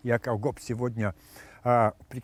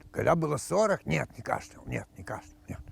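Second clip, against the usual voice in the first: put-on old man voice. Old man denies, fading.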